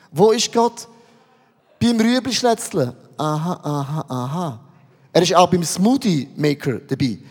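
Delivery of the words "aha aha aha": low, soft repeated ahas; quiet acknowledgement. Acted. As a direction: murmur it low as if half occupied. Murmured answers while chopping carrots.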